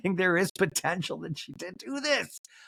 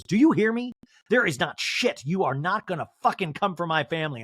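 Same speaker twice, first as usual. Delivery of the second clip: mock angry warning. Angie K warning Meredith off her family, mock angry. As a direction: imitate an emphatic warning.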